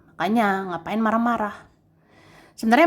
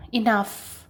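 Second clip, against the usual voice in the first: whispered enough. Acted. Telling viewers to stop toxicity.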